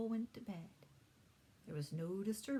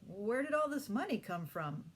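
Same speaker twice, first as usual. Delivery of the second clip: surprised; 4 semitones higher, 6 dB louder than usual. A narrator's reading. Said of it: "he gave a whistle of surprise".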